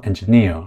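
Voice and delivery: "engineer" with the final "-neer" stressed; stress on third syllable. Shown as a demonstration. Teacher giving an example of rare stress, "-neer" stressed in "engineer". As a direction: lean on the last syllable of "engineer". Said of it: "이건 이제 세 번째 음절에 강세가".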